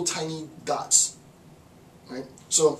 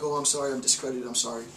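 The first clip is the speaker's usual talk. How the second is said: meek apology; 3 semitones lower, 3 dB quieter than usual. Retold or imitated. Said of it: "And the person's like".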